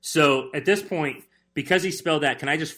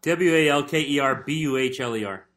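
spelling it out. Shown as a demonstration. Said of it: "contestant spells word".

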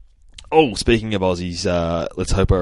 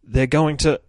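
Adam Eve alarmed; 8 semitones higher than usual. Retold or imitated. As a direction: squeal the warning like a panicked hero. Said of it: "So Adam Eve is just like".

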